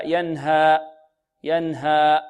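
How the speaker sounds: ينهى cut off with a glottal stop; wrong hamza ending. Shown as a demonstration. Teacher showing the mistake, hamza ending on ينهى. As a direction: close the final alif of ينهى on a hamza. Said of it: "خطأ".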